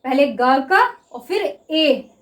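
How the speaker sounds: "ग" then "ए", each sound drawn out; walk students through the sounds slowly. Shown as a demonstration. Teacher slowly sounding out the word गे for students. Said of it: "हमें किसका sound आ रहा है?".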